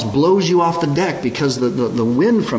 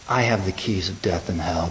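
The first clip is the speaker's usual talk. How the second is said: softer, calm "I have the keys of death and hell"; soft reassurance; 4 semitones lower, 3 dB quieter than usual. Acted. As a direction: promise safety quietly. Jesus reassures, softly.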